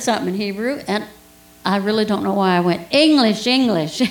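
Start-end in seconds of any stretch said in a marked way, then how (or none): 2.9-4.0 raised, higher voice on a repeated word; imitated calling out. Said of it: "like that".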